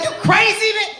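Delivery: high, shouted "You crazy, man?"; laughing mock yell; mock charge shout. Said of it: "ready to charge up here and be like".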